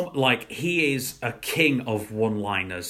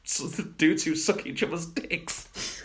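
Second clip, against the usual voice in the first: giggling through the punchline; half laughing as he quotes the comedian; retelling a joke while laughing; 3 semitones higher than usual. Retold or imitated. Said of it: "one of his jokes is".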